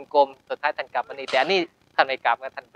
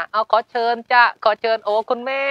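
higher, sing-song blessing-ceremony caller; imitating a ritual officiant; 8 semitones higher than usual. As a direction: mimic the sweet inviting chant of a ceremony master. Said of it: "อะไรเงี้ย เออ อีกแนวนึง ... เขาเป็นหมอขวัญ".

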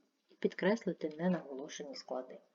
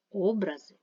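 образи with a loud first О; stress on first syllable; 2 semitones higher, 5 dB louder than usual. Shown as a demonstration. Teacher contrasting word meanings, first-syllable stress on образи. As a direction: hit the opening vowel of образи. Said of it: "мають різний наголос".

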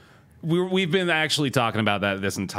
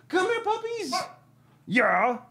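much higher sing-song call; calling puppies; slower than usual. Real, not acted. Streamer calling his puppies, high sing-song. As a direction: call the pups over sweetly.

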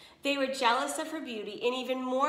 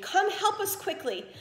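mock scream; 9 semitones higher than usual. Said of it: "they screamed".

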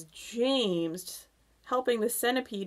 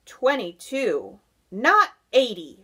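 loud, higher-pitched objection; mild shriek; 4 semitones higher, 8 dB louder than usual. A narrator's reading. Earthworm correcting the centipede's count, mild shriek. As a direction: correct him with punched, indignant words. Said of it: "shrieked the earthworm".

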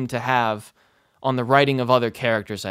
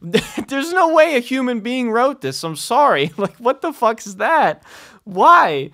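laughing disbelief; 9 semitones higher, 5 dB louder than usual. Real, not acted. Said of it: "laughing at the writing".

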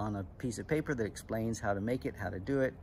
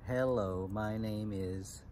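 slow, separated syllables; measured syllable demo; slower than usual. Shown as a demonstration. Teacher showing club kids what syllables are, measured. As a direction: sound it out syllable by syllable.

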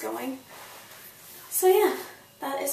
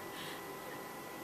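teary soft laugh; 16 dB quieter than usual. Real, not acted. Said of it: "I'm sorry that I'm getting emotional".

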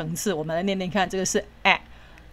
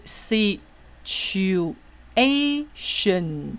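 "C、H、U、A、shen" in slow separate syllables, A pitched highest; stress on A; much slower than usual. Shown as a demonstration. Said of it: "要念得最高".

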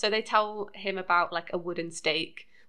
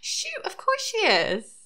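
whisper; 13 semitones higher, slower than usual. Real, not acted. Mock dismay at a guess.

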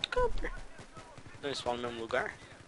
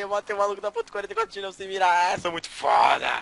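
cocky bragging; 3 semitones higher, 5 dB louder than usual. Real, not acted. Bragging after kill.

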